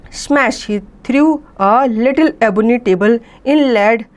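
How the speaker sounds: very slow, careful read-aloud of an English story. A narrator's reading. Teacher reading the story to students, very slow and clear. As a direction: read each phrase slowly so the class can follow.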